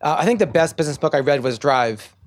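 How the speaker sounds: a slightly hoarse, tired voice; losing your voice a little. Real, not acted. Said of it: "I'm losing my voice a little bit".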